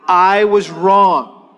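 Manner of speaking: very slow, spaced words; slow model line. Shown as a demonstration. Pastor leading congregation in repeat, very slow. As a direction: lead them word by word.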